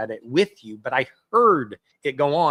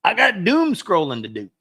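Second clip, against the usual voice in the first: mock excuse; 6 semitones higher, 5 dB louder than usual. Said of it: "I don't have time to journal".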